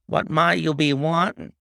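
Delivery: lightly voiced gaunt woman, northern accent; a hint of a northern English accent, curt. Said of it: "she asked in a northern accent".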